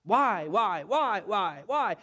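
loud, repeated whiny why; the people complaining back to Moses, loud and whiny; whining crowd. Acted. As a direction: complain like a mob that won't stop. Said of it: "they're saying back to him".

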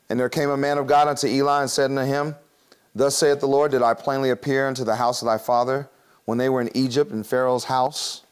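measured pulpit reading of the verse; solemn Bible reading; scripture reading. Acted. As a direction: read each virtue out as a list. Reads scripture aloud.

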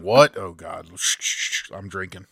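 loud yelp then hushed shushing; a sloshed booth worker hushing; drunk translator. Pretend.

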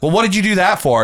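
imitating a prying coworker; mocking annoying coworker. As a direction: needle them like a nosy coworker. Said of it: "annoying coworker".

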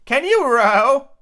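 high, loud, drawn-out bleaty voice; bleating sheep. A narrator's reading. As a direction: bleat the question slowly like a sheep. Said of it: "the sheep asked".

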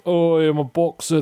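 slow, lightly put-on American accent; a hint of a tough American boxer; mock American accent. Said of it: "This is my American accent".

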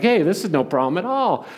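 imitating a confident knight; mock confidence. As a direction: act breezily sure of yourself. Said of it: "he's feeling confident".

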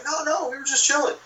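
lightly voiced guys brushing it off; casual dismissal. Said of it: "They're like".

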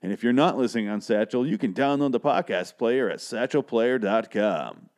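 host reading the sponsor script, hyped announcer voice. Acted. Reads sponsor ad aloud.

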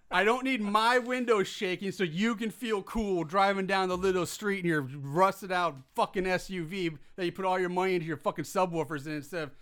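heated rant at loud cars; angry rant. Real, not acted. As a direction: vent the irritation hard. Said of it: "a personal gripe you are airing here".

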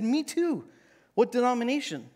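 high, eager and chummy; a hammed-up overeager believer; eager me too. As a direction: jump in, keen to agree. Eager narrator in the joke.

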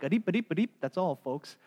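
lightly voiced stuttering cartoon sign-off; Porky Pig. Girls' gibberish code heard as cartoon stutter. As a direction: stutter rising syllables, then settle into the catchphrase. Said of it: "It sounded like Porky Pig".

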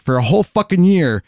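high-pitched, laughing retelling of a punchline; laughing incredulity. Retold or imitated. Comic telling the audience about his girlfriend, laughing incredulously.

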